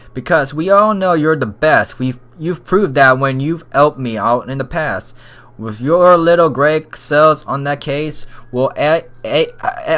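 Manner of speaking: stumbling attempt at a British accent; lightly British inspector, tripping over the words. Inspector praises the detective, faltering British accent. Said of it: "I can't do the freaking accent".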